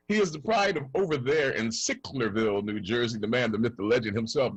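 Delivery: booming pumped announcer. Acted. Host introduces co-host, second take.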